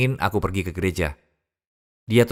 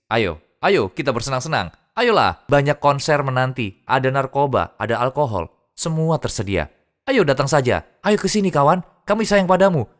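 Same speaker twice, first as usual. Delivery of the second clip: luring tempter voice; 4 semitones higher than usual. Retold or imitated. Tempters coaxing a new Muslim to party, high luring call. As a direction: lure him in like a party crowd calling.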